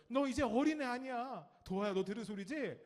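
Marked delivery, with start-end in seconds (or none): 0.1-1.5 high, loud mock nag; nagging parent. Parent to a third-grader, mock nagging. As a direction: imitate a parent telling off a child. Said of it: "아이들이 이런 잔소리를 해요".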